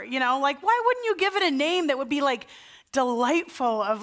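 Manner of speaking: why on earth would you name it that; mock-indignant complaint to Matthew; incredulous question. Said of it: "I'm like".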